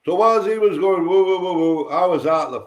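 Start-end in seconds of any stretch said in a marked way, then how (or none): 1.1-1.9 higher string of quick woos; repeated woo-woo noises; imitated reeling. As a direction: mimic someone dazed and wobbling.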